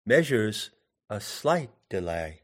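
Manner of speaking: MEA-sures a SLIGHT de-LAY, beats lightly marked; subtle metrical emphasis. Shown as a demonstration. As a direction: follow the beats gently on "measures", "slight", "delay". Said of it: "bring subtlety to the emphasis of the words".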